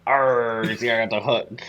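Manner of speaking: a light pirate growl. Pretend. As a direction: play a pirate with a hook. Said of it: "now you do yours".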